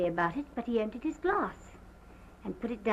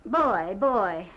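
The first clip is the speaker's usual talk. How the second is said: calling out loudly for help; shouting; 8 dB louder than usual. Retold or imitated. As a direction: yell for the boys. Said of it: "I cried out as loud as I could".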